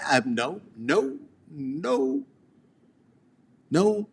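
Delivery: ordinary delivery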